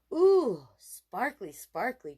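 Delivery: put-on small boy marveling at sparkles; delighted little boy. A narrator's reading. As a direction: coo over the sparkly bracelet. Little boy admiring bracelet.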